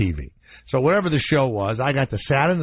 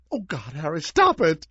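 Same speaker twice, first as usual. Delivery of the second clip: mom pleading; 3 semitones higher than usual. Retold or imitated. Mother pleading with father.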